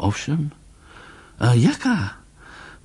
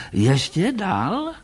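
usual speaking voice

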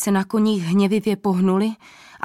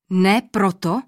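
surprised; 3 dB louder, slower than usual. A narrator's reading. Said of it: "zvolal překvapeně král".

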